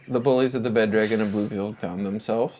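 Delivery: slow, measured recap with long pauses; game master narration. A narrator's reading. Game master recapping last session to players, slow narration. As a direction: set the scene slowly, piece by piece.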